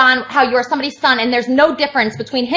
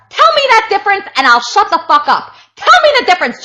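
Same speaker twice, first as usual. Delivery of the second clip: higher, heated demand to explain; angry demand; 4 semitones higher than usual. Real, not acted. Demanding John explain the difference, heated. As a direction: push him hard for an answer.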